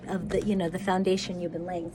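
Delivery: stumbling over words; tripping over the words, stuttering. Real, not acted. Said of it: "I'm all stuttering over my words today".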